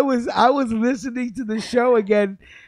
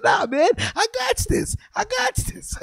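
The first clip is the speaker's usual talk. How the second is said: mock bravado; 13 semitones higher, 5 dB quieter than usual. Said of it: "I said".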